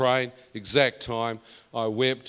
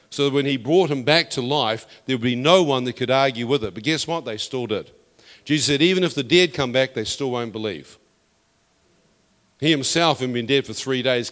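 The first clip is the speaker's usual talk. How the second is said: louder, driving sermon delivery; rising preacher's fervour, louder; fiery preaching; 4 dB louder than usual. Acted. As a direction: preach it hard to the crowd. Preaching at full force.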